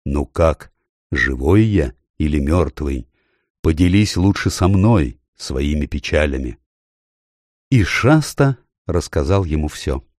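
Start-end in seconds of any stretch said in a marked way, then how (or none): 0.0-6.6 low, calm, kind voice; lightly deepened reassuring voice; deep gentle voice. Acted. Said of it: "и голос спросил".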